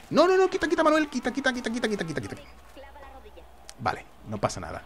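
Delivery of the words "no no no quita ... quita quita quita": frantic high cries of quita, fading down; shrill panicked begging that trails off; panicked pleading. Real, not acted. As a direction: panic at first, then let it die away. Panicked pleading as enemies attack.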